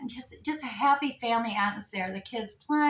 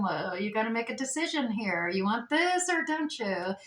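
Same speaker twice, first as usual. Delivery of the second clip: weird devil voice. Retold or imitated. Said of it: "getting that weird voice from".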